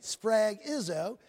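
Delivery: "Sphragizo" drawn out slowly; slow, deliberate Greek word "Sphragizo"; careful pronunciation. Shown as a demonstration. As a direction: sound out "Sphragizo" with care. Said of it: "I pronounced that right".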